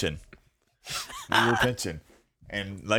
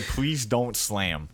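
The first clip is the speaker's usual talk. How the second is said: slow sign reading; much slower than usual. Retold or imitated. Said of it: "And it said".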